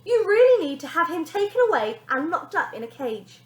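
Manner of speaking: high, loud mocking laugh through the words; a TV star laughing at the boy; laughing mockery. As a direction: sneer it out with a laugh. TV star's mocking reply, laughing.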